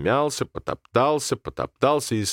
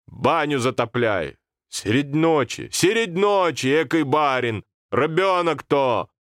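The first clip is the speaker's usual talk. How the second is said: put-on higher, fretful old woman's voice; old grandmother fussing; 6 semitones higher, slower than usual. Grandmother scolding at night, fretful. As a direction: grandmother lamenting, pitched up.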